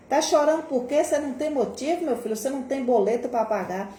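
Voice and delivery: high, mocking scold of a crying child; mocking scolding adult. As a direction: mimic the dismissive grown-up. (imitando adulto que ralha, agudo e debochado)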